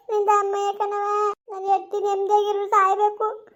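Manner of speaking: weepy, sustained wail of a plea; tearful pleading. Acted. Husband begging for his wife to die in peace, tearful pleading. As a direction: plead through held-back tears. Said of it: "ಅಳ್ಬೇಡ".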